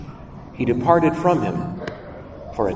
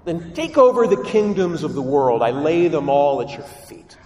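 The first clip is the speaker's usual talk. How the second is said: tempting Lucifer. Acted. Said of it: "Lucifer says to Jesus".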